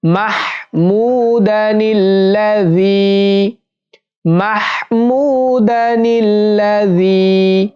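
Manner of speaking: slow, drawn-out Quran-style chant; ধীর তিলাওয়াত; slow recitation. Shown as a demonstration. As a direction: recite slowly for learners to echo. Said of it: "আইন সা জবর আস বলতে হবে".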